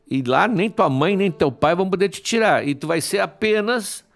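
mild storybook menace, lifted pitch; Apollo threatening. Acted. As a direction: taunt a tiny foe with mock menace. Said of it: "eu vou te arremessar".

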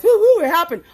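high-pitched mock cheer; celebratory whooping. News crew acted out high-fiving over the verdict, whooping. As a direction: whoop it up like a playful high five.

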